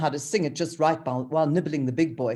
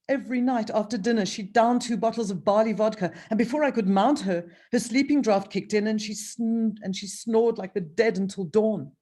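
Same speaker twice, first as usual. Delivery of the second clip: sultan voice; 6 semitones higher, 3 dB louder than usual. Acted. Author voices the Sultan character.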